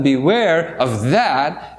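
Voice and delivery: slow, grave warning; a touch of sternness, slowed right down; very serious. Retold or imitated. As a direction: say it slowly as a solemn warning. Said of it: "and He's very serious".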